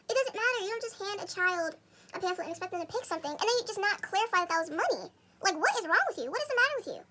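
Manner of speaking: mildly heated retelling of a telling-off; acting out an argument; retold indignant scolding. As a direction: scold in exasperation, pitch jumping at the end. Retold dad scolding the salon owner.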